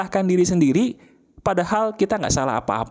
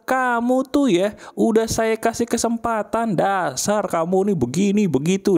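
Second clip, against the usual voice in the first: acted angry boss; 3 semitones higher than usual. Boss scolding an employee over a failed task, mock angry. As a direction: imitate a boss's reprimand, stretching the first words. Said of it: "Begitu bos marah, dia bilang".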